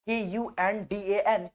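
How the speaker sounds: letters spelled out slowly one by one; slow dictation to students; slow spelling. Shown as a demonstration. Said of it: "spelling letters out for students".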